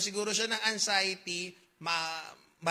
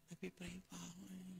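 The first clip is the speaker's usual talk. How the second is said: muttered retort; 21 dB quieter than usual. Retold or imitated.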